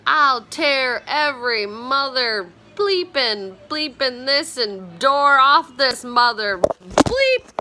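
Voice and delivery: slow, drawn-out hammed-up threat, laughing at the end; playfully acting out a tough housemate; mock rage. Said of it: "That's what she said".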